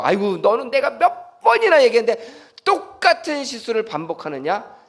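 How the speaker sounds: mock rebuke. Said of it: "책망하시는 분이 아니라".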